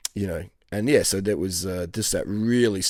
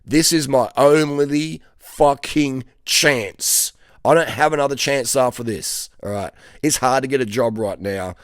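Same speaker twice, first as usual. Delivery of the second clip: fired-up inner voice; 2 semitones higher, 4 dB louder than usual. Retold or imitated. Worker on his last chance pumping himself up, urgent and louder. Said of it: "sitting there thinking".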